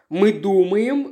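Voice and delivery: slow, nervous start; nervously interrupting the prosecutor; agitated. A narrator's reading. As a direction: blurt it out, flustered. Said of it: "взволнованно сказала жена шерифа".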